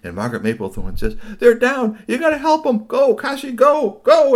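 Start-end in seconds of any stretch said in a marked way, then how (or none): 1.4-4.3 high, loud go go go; urgent shout. Acted. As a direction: push the dog on, louder each go. Margaret urging dog on.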